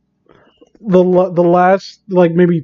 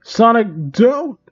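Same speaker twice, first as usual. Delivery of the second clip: scared shout; 4 semitones higher, slower than usual. Acted. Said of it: "You shout, scooting away".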